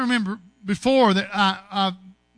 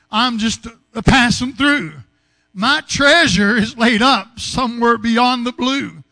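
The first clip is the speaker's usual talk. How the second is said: louder rising preacher's cadence; preaching; 4 dB louder than usual. Acted. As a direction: build the sermon toward its climax. Preaching builds to climax.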